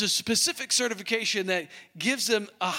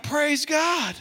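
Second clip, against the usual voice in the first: joyful shout; 7 semitones higher than usual. Retold or imitated. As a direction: shout it with joy. Hearing of huge deal.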